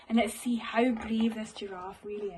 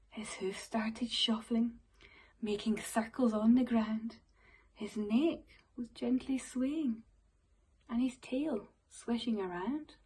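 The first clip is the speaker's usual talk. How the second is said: soft whispered narration; hushed storytelling; 3 semitones lower, 6 dB quieter than usual. Acted. Teacher hushing the class for the magic moment, whisper. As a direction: draw the children in with a hush. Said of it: "hushed magical moment".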